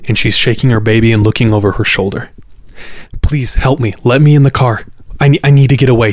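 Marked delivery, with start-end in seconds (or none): 3.2-6.1 higher, urgent mock pleading; acted terrified plea. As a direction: beg for help like a frightened woman. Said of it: "genuinely terrified".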